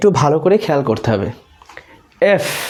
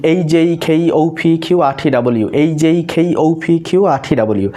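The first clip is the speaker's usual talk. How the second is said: in one breath; faster than usual. Shown as a demonstration. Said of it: "এইভাবে একত্রে practice করবেন".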